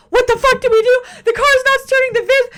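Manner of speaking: high, loud frantic yell; panicked yell. Retold or imitated. Braden panicking at the stalled van, frantic high yell. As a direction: shout it in a full panic. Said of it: "Braden's having a full-blown panic attack".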